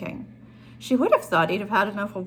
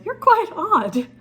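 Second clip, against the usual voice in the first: amused exclaim; 10 semitones higher, 8 dB louder, slower than usual. Acted. Lawrence amused by her.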